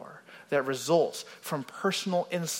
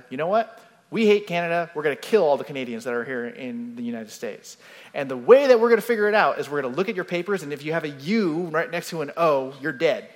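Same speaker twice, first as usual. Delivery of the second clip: louder mock hostile decree; mock angry rant; 5 dB louder, faster than usual. Preacher imagines Americans threatening Canadians, loud mock anger. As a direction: bark out a hammed-up threat. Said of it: "we decided".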